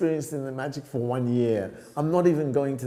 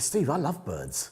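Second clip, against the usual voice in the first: slow, softer, slyly pleased; sly confession; 5 dB quieter, slower than usual. Retold or imitated. Student slyly telling his tutor he loves birds. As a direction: let it slip with a grin. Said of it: "I said".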